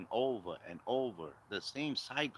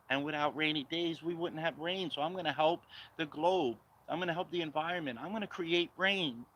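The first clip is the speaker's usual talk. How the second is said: higher, rambling mock politician voice; mocking Kamala Harris; 4 semitones higher than usual. Vlogger mocking Kamala Harris to viewers, higher rambling voice. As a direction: parody her circular speech, a bit higher. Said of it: "I'm gonna talk like her".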